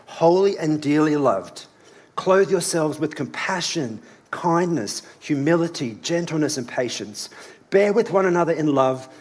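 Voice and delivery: earnest Bible reading aloud; scripture reading. Acted. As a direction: read the verses with feeling. Reads Colossians aloud.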